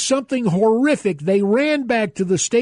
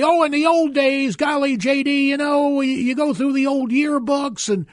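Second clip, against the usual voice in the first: higher, wistful mock quote of old-timers; nostalgic folks; 5 semitones higher than usual. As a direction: gush lightly about the good old days. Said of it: "some folks say".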